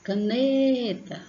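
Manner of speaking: Caneta sung out with a long, high NE; chamando alguém. Shown as a demonstration. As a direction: push hard on the NE of Caneta, calling. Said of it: "O né você sente mais pondo força". (Caneta chamada, com força no NE)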